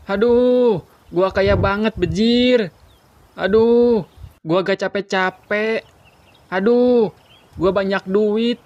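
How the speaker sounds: teriak girang yang dibuat-buat; mengeluh pura-pura senang. Acted. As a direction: pamer dengan mengaduh yang dilebih-lebihkan. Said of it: "Lu kenapa sih? Keserupan, hah?". (berlagak kaya dengan suara tinggi)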